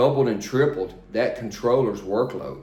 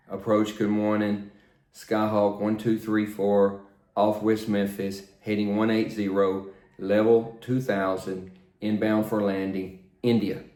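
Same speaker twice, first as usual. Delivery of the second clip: "Approach, good morning, Skyhawk one two three four" with a brief pause before each item; small breaks between items; 3 semitones lower than usual. Shown as a demonstration. Instructor demonstrating a radio call to approach with a pause between items. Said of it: "you hear how I make a little break before each information".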